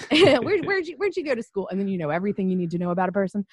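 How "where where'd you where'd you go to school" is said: raised, pressing mock questioning; mock insistent question. Host imitating Memphians grilling her about school. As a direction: push the question like a nosy local.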